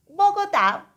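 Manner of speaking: "Bogotá" sung out high and loud; Bogotá called out high. Shown as a demonstration. Teacher presenting "Bogotá" to her students, called out high and loud. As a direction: announce "Bogotá" with a lift.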